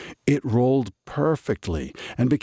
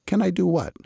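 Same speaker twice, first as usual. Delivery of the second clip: Muddle voice; 11 semitones higher, faster than usual. A narrator's reading. Muddle's high confused question.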